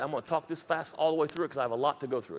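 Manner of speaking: rapid-fire delivery; talking really fast. Real, not acted. Preacher warning the congregation he'll talk fast. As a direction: rush through it at top speed. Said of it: "I'm talking really fast".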